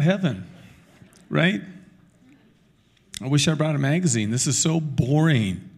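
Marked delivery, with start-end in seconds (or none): 3.2-5.7 a touch of sulky boredom, no bigger than his usual voice; lightly voiced bored complainer; mock bored. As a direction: imitate a bored churchgoer in heaven. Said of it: "Some people think that heaven's just gonna be boring".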